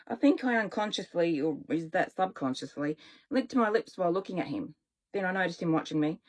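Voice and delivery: plain reading voice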